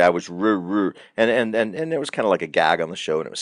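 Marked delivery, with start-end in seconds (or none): 0.0-0.9 choking on the word wrong; Fonzie stammer. Retold or imitated. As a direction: stall on ruh, never finish it. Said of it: "He would say".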